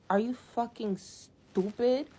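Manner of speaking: incredulous outrage. Real, not acted. Outraged at gas money request.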